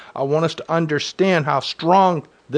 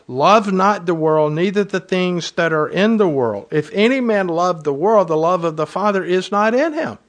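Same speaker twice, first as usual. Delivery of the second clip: raised, deliberate reading of the verse; scripture reading; 3 semitones higher than usual. Acted. Pastor reading the verse to his congregation, raised and deliberate.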